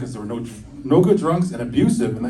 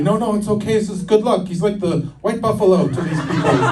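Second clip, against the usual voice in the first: mock soothing nurse; 8 semitones higher than usual. Nurse reassures the doctor.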